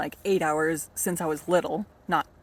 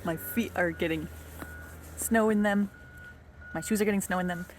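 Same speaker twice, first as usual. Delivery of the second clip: shaky voice from the cold; shivering; 4 dB quieter than usual. Real, not acted. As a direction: talk while shivering in the snow. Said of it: "I'm shaking a little while I'm filming this 'cause I'm cold".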